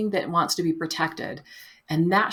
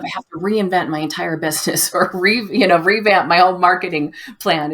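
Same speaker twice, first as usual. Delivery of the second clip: overwhelmed self-talk; 7 dB louder than usual. Retold or imitated. Acting out overwhelmed inner voice.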